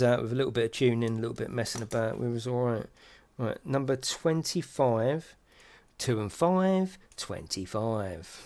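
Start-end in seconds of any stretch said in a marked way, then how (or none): 3.4-8.4 bingo caller. Acted. Bingo call while building model.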